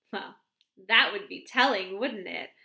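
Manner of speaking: arch. A narrator's reading. Miss Cram teasing the vicar's wife, arch and coy. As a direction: hold back the secret playfully. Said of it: "with her usual archness".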